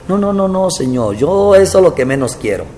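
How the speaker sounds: plaintive high protest to God; pleading. Retold or imitated. Pastor retelling his plea to the Lord, pleading high. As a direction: plead your innocence, voice up.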